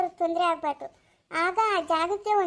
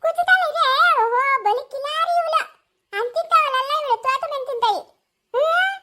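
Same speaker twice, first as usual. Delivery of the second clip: much higher and louder, laughing while teasing; 8 semitones higher, 6 dB louder than usual. Acted. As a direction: play with the baby through giggles. Grandmother laughing, teasing the baby.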